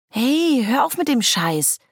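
sharp, high, loud yell to stop; angry shout. Acted. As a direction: shout at him to quit it. Annoyed shout in a boat.

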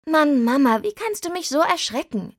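relieved but annoyed, scold your mother; exasperated outburst. Acted. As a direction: daughter venting after a scare, pitch climbing high. Daughter scolds mother after fright.

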